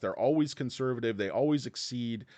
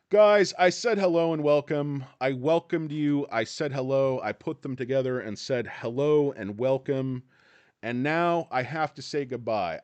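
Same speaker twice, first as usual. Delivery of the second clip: louder, hammed-up protest over the greeting; mock indignant; 6 dB louder than usual. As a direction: insist playfully that you already said hello. Mock-indignant about his greeting.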